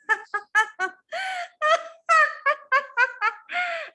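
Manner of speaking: high, hammed-up peals of laughter; loud deer laugh. Deer laughs at the little crow, loud mock laughter. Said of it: "जोर-जोर से हंसने लगा".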